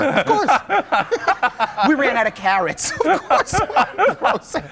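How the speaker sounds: high sarcastic laughing reply. Acted.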